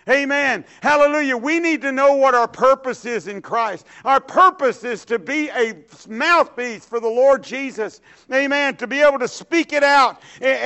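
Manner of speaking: lively preacher's exhortation with Amens; preaching. Acted. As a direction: preach it out to the congregation. Preaching the message.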